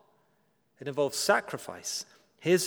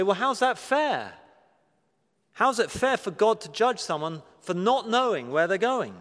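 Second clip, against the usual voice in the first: higher, pointed challenge; protesting objection; 4 semitones higher than usual. Acted. Congregation objects to God judging the ignorant, protesting. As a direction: put it as an aggrieved question.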